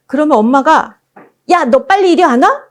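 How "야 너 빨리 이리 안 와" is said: scolding mom, higher rising demand; 소리치는 엄마. Acted. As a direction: imitate a mother sharply calling a child over. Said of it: "이러면서 막 소리치면". (아이를 다그치는 엄마 흉내)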